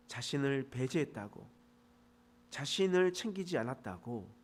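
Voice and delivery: soft, earnest prayer voice; closing prayer. Real, not acted. Pastor leads the congregation in closing prayer, softly earnest. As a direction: pray quietly and humbly.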